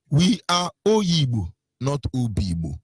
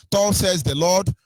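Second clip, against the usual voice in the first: mock biblical English; 2 semitones lower than usual. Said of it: "the English they were speaking was".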